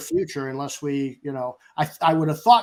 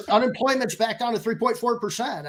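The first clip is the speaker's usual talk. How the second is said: higher, laughing through the figure; laughing while speaking; 7 semitones higher than usual. Real, not acted. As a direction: let the laugh carry the words. Laughing after his own joke.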